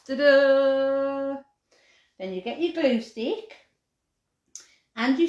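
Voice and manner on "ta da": showy ta-da. Real, not acted. Showing cut out hearts.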